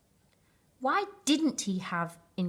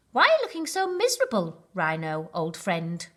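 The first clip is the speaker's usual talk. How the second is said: cheery baboon voice. Acted.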